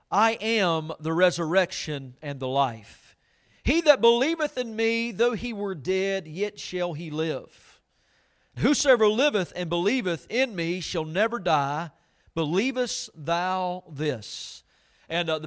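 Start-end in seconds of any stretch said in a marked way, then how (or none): 0.1-3.2 slow, measured reading of the verse; solemn scripture reading. Acted. Pastor reading scripture to the church, slow and solemn. 3.6-14.6 slow, weighty King James reading; solemn scripture reading. Acted. Pastor reading Lazarus passage to the church, slow and solemn.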